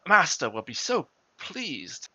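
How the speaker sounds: baritone voice. Acted. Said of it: "in a very baritone, baritone, baritone voice".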